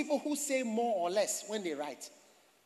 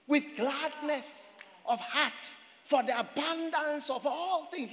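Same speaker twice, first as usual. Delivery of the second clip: solemn scripture reading; 3 semitones higher, slower than usual. Shown as a demonstration. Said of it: "he says".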